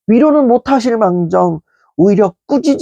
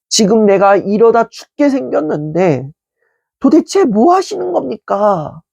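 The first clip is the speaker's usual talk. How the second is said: demanding complaint. Retold or imitated. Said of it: "따져 물으며".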